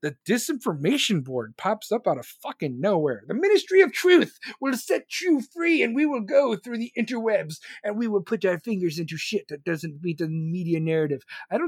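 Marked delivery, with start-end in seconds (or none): 3.3-11.2 mock official voice. Mocking the disinformation board as a pompous official. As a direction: parody a smug government announcer.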